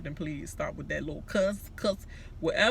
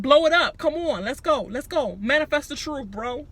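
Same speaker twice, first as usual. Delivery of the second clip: higher, louder pumped-up chant; hype; 8 semitones higher, 6 dB louder than usual. Retold or imitated. Nick hyping himself up, higher pumped chant. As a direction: hype yourself up like a fighter. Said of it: "He said".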